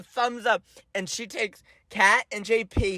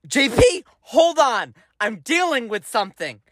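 mom voice; 4 semitones higher than usual. Retold or imitated. Mom brushing off bleeding kid.

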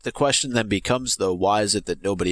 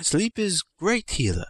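put-on high, slow old maester; a doddering old healer, slowly; 8 semitones higher, slower than usual. Pycelle line in character.

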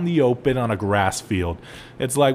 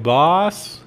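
calling the boss; 3 semitones higher than usual. Retold or imitated. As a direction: call the boss over in a hurry. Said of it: "tell my boss, like".

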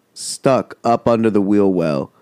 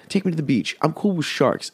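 higher, softer, whining repeat; whiny plea; 7 semitones higher, 4 dB quieter than usual. Retold or imitated. Begging his friend to leave the desert: high mock whine.

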